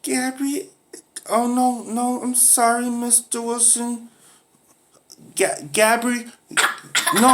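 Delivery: very high, flustered pupil voice; pupil Tito. Acted. Pupil Tito apologizing to Mister Wilson, high and flustered.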